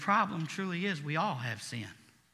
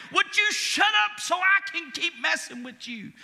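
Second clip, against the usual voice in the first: mock devil; 11 semitones higher, 5 dB louder than usual. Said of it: "The devil's like".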